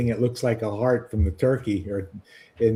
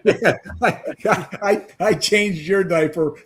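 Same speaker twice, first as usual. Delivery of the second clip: laughing, louder retort; 5 semitones higher, 4 dB louder than usual. Real, not acted.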